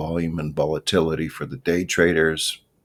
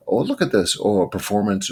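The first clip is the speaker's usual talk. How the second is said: higher, louder gasp of wonder; surprised delight; 4 semitones higher, 3 dB louder than usual. Real, not acted. Host showing viewers a striking chart, surprised and higher. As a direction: marvel at what's on screen.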